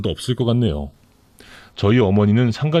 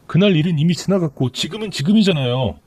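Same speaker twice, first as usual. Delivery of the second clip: higher, tearful-sounding plea from the mistress; pleading mistress; 5 semitones higher than usual. Acted. Mistress begging her lover's sister for help, pleading.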